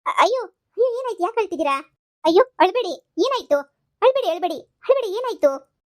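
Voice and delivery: high, loud, flustered consoling; alarmed concern. Acted. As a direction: fuss anxiously over someone in tears. Nurse alarmed at patient suddenly crying. (ಗಾಬರಿಯಿಂದ ಸಮಾಧಾನ ಮಾಡುವ ಧ್ವನಿ)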